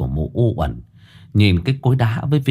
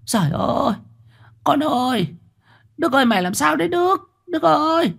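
much higher, fast panicked mother's wail; mother crying out as son collapses; worried cry. Acted. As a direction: cry out in fear for your son. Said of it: "Mụ Tâm lo lắng kêu lên".

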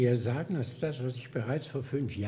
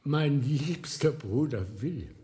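fond greeting; 3 semitones higher, 5 dB louder than usual. Acted. Old monk greets long-lost friend.

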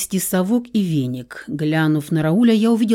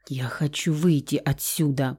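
whisper; 4 semitones lower, 5 dB quieter than usual. A narrator's reading. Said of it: "прошептала Лусия".

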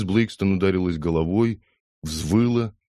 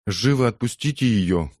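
sharp shout; 5 semitones higher than usual. Acted. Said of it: "крикнула соседка".

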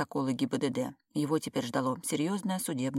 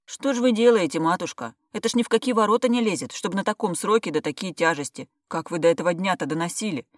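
scolding doctor; 3 semitones higher, 6 dB louder than usual. Acted. Doctor scolding pregnant patient.

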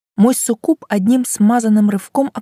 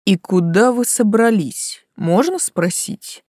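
mocking; slower than usual. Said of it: "насмешливый голос".

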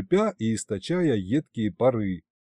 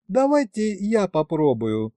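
голос Алёны; 6 semitones higher than usual. A narrator's reading. Девушка вызывается помочь.

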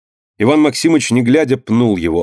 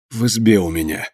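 hoarse; 3 dB quieter than usual. Acted. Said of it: "хрипло заговорил Жданка".

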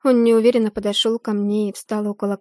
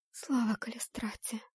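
soft unvoiced thanks to the goddess; whispered prayer; 12 dB quieter than usual. Heroine thanks goddess, whispered. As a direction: breathe it out in relief. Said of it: "Вознесла молитву богине".

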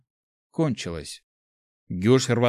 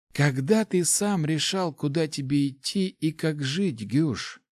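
put-on higher, fond old mentor voice; old rector voice; 5 semitones higher, slower than usual. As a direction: speak as a kindly old master. Rector speaks.

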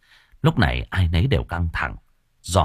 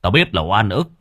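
louder, fast stern telling-off; scolding; 3 semitones higher, 5 dB louder than usual. Acted. Young master scolding the corpse, a touch louder and fast. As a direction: scold the corpse like a stubborn child. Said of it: "mà mắng".

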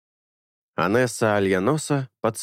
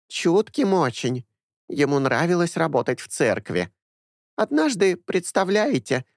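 put-on higher, chatty old woman's voice; a fussy old nanny doting on her boys; higher-pitched gossipy granny; 7 semitones higher than usual. A narrator's reading. Old woman Anessa grieves.

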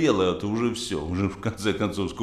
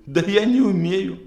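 naive son-in-law; 9 semitones higher, 4 dB louder than usual. Acted. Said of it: "зятёк говорит".

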